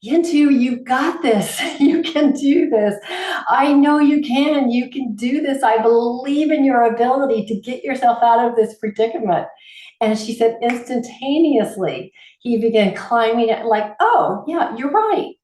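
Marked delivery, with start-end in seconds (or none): 0.0-9.5 retold shouting up. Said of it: "she started screaming up at her cat". 14.0-15.3 lightly voiced cat, high and chirpy; a hint of a cat suddenly agreeing; the cat answering its owner, lightly voiced high; cat's reply. Voicing the cat's response.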